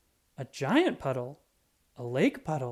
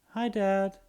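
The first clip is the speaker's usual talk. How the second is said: sheepish smile; 5 semitones higher than usual. A narrator's reading. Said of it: "with a little smile".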